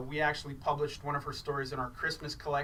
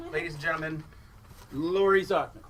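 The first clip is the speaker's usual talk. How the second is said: announcer's big build to the name; stage announcer; 6 dB louder than usual. Real, not acted. Host brings the reader on stage, announcer style.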